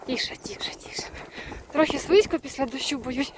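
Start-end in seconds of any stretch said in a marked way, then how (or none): 0.1-1.0 whispered, low calming of an animal; hushed soothing. Real, not acted. Rider settling the horse, soft whisper.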